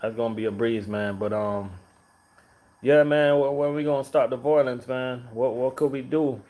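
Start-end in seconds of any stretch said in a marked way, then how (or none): none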